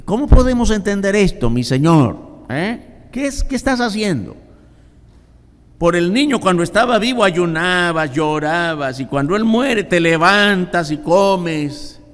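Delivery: high, lightly voiced bewildered questioning; a touch of confused servants; puzzled servants. Servants asking David why he eats now, mildly bewildered.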